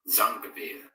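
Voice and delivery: Zangville with a firm Z and clipped ending; repeating the name. Shown as a demonstration. Host trying out the user's name. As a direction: sound out Zangville as heard. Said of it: "something that they would say in Austria".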